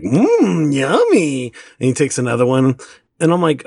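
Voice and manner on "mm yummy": little son. Retold or imitated. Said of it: "he takes a bite of one".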